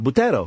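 "Butero" said as a Greek word. Shown as a demonstration. Host denying it's made up, "Butero" in Greek pronunciation. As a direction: say "Butero" Greek-style, tapped middle consonant. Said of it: "as they say in Greek".

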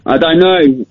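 distorted phone voice; robotic phone line. Real, not acted. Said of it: "Why do you sound like a robot?".

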